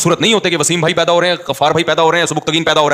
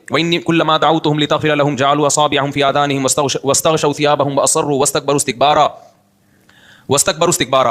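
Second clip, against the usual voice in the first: steady recital from memory; Quran recitation. Real, not acted.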